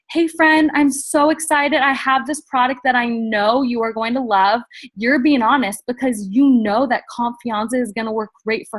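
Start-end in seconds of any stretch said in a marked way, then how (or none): 0.1-4.6 right way to pitch a friend, excited. Shown as a demonstration. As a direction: gush with excitement. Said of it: "So if you say".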